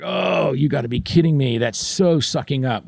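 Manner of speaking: scoffing, quick disbelief; mock disgust. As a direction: scoff at it as a cynical listener. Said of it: "probably just threw up in your mouth".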